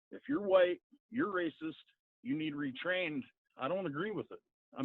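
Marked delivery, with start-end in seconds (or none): 0.1-3.2 high, mocking sing-song take on the accusation; mock the preachy accuser; mocking quote. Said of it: "take the masses and say".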